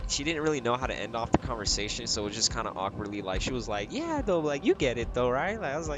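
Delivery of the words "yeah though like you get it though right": mock tipsy customer. Mocking customer ending awkwardly.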